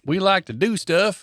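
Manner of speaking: mock alien drawl. Alien species voice bit.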